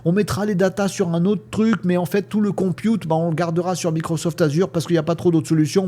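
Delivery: lightly voiced bureaucrat making excuses; mocking the state. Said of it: "l'État, euh, est en plein bégaiement".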